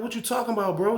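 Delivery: high-pitched puzzled question; acted bafflement.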